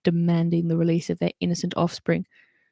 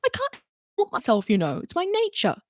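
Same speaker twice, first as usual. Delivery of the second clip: much higher sorry whine; whining dwarf; 10 semitones higher than usual. Acted. Mulch excusing his thieving to Holly, high whine. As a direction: plead it with mock regret, up high. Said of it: "he whined".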